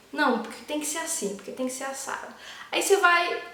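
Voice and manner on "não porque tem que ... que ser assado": mock stubborn ego. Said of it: "aquele lado seu que tá preocupado".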